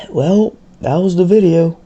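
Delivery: dry, sarcastic sign-off after a sigh. Acted. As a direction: say it with eye-rolling sarcasm. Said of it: "I'll just very sarcastic".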